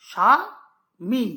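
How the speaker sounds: স্বামী stretched very slowly as স্বা-মী; slow syllable demo. Shown as a demonstration. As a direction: draw out স্বামী to show two beats. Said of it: "এই শব্দটা যখন আমরা উচ্চারণ করছি". (স্বামী ধীরে দুই ঝোঁকে ভেঙে বলা)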